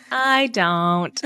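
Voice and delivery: drawn-out plain American accent. Shown as a demonstration. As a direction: say it the ordinary American way. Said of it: "Meanwhile, we're like".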